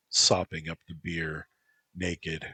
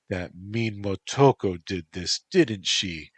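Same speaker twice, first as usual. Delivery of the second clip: Black Fan, sweet concern; 3 semitones higher, 7 dB louder than usual. Acted. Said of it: "Black Fan asked".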